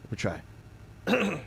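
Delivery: slow, soft rasp of Marge Simpson; a hint of a cartoon mom's rasp; attempting Marge. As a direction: try out a raspy cartoon mom. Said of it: "I used to be able to do ... a kinda good Marge".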